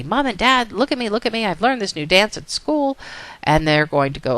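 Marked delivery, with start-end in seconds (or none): 0.0-3.0 lightly voiced eager child, a little higher; a hint of an excited kid; excited little girl. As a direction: show off to your parents, lightly acted. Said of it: "she's gonna say".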